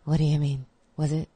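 low-key comic impression; Todd Barry. Guest keeps imitating the comic, understated puzzled delivery. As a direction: lightly imitate a deadpan, puzzled comedian. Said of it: "that was a good Todd Barry impression".

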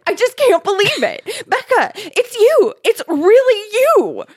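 high, loud, gushing squeal; overjoyed cry. A narrator's reading. Girl reunited with Becca, overjoyed squealing. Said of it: "the girl cried".

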